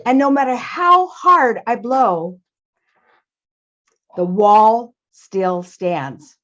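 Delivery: slow, stretched, emphatic storybook wind; Mister Wind, weary effort. Acted. Mister Wind tells Father Mouse of blowing at the wall, slow and emphatic. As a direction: draw out each repeated effort, then slow right down.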